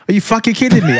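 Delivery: high, indignant outburst; vexed girlfriend. Retold or imitated. Woman confronting partner on the phone, vexed. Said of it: "she was like; She was vexed".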